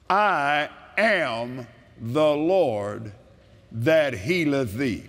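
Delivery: measured, solemn reading of the verse; slow scripture reading. Acted. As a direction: read it slowly like holy words. Reads scripture slowly, solemn.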